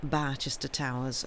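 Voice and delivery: slow, drawn-out dramatic recap question; mock announcer. Opening the book recap for listeners, slow mock-dramatic announcer style. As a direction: intone it like a TV recap host. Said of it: "I don't know why I'm saying it like that".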